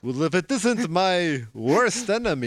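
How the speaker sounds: hammed-up nemesis welcome; amused arch-enemy greeting; mock villain greeting.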